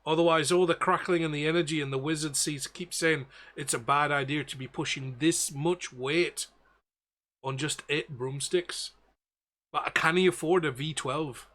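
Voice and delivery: ship's captain in a rough attempt at Belfast; bad Belfast accent. Captain worrying over overloaded broomsticks, bad Belfast accent. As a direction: put on a poor Belfast accent. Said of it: "absolute worst Belfast accent I've ever done".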